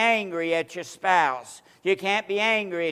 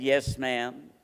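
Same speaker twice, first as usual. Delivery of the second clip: a hint of a soft, humble yes, lower and softer; meek yes ma'am; 7 semitones lower, 5 dB quieter than usual. Preacher meekly answering an angry church lady, softly. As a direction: answer like a small innocent child. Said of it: "Very kind, this little innocent face".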